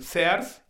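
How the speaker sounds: "Sears" as "se-ars"; "Sears" with both vowels sounded; Spanish reading of Sears. Shown as a demonstration. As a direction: say "Sears" as Mexican ads do, "séars". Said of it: "los spots dicen Sears".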